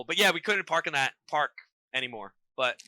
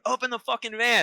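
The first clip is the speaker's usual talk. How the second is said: mock yell, raised in pitch only; higher, held-back imitation of yelling; retold yell; 5 semitones higher than usual. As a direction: act out an angry order without shouting. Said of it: "he's yelling at me".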